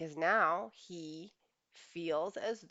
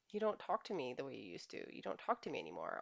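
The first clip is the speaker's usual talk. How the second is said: soft, lower, hesitant confiding; mild trepidation; 4 semitones lower, 7 dB quieter than usual. Retold or imitated. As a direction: raise it gingerly, voice dropped low. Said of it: "they will share with trepidation".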